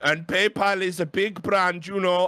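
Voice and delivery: slow, laboured mock lecture; imitating ESL producer. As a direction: drag out each point pedantically. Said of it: "twenty minute fucking lecture".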